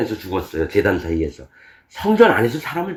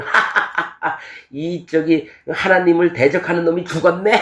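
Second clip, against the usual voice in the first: gloating cackle, voice pitched up; mocking laugh; 5 semitones higher than usual. Pharisees gloating over a killed prophet, mocking laughter. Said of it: "하하하하 이러면서".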